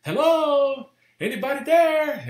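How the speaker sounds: high shouted hello into an empty house; loud calling out. Retold or imitated. Agent shouting into the house to check if anyone is there, loud high call. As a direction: call out loudly to see if anyone is home. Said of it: "a pessoa gritava".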